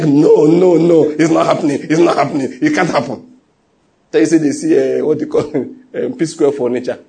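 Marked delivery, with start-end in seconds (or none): 0.0-3.4 mock disbelieving protest, repeated insistently; hammed-up refusal to accept the news; imagined denial. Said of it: "you are going to like".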